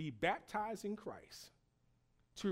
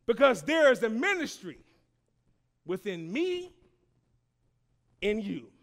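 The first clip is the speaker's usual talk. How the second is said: enthusiastic; 5 semitones higher, 12 dB louder than usual. Shown as a demonstration. Continues the rallying declaration.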